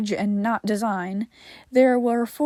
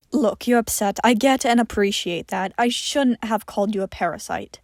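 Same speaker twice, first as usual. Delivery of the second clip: gentle. Acted. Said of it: "as gently as he could".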